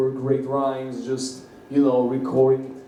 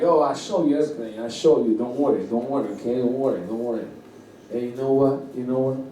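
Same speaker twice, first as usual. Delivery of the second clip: reassuring neighbor; 2 semitones lower, faster than usual. Retold or imitated. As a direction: imitate a neighbor brushing worries aside. Imitates neighbor hastily reassuring him.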